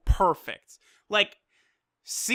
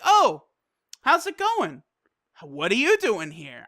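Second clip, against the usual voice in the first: mock calm Frieza. Reviewer retells Frieza greeting Goku, exaggeratedly calm. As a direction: play up an unbothered, breezy greeting. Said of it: "Frieza is very calm throughout this".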